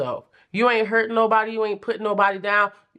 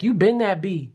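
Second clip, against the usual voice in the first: sassy. Pretend. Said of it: "Do somebody talk like that?".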